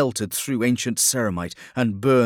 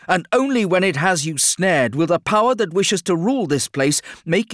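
loud, high warning psyker voice; ominous psyker; 7 semitones higher, 5 dB louder than usual. A narrator's reading. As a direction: warn with dire intensity.

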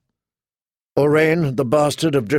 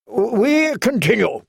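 higher, slow, firm command; clear, strong voice; 9 semitones higher, slower than usual. A narrator's reading. Lord takes command of the hall, clear strong voice. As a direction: silence the room with authority. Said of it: "in a clear, strong voice".

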